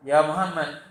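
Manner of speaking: a loud blunt call by name; loud retold call. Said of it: "suaranya lantang, keras". (panggilan keras yang ditirukan)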